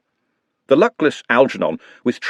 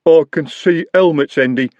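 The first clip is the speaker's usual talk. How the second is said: urgent warning; 6 semitones higher, 4 dB louder than usual. A narrator's reading. Jumbo warning Andy about the watch, urgently. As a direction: urge him to leave. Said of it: "said Jumbo urgently".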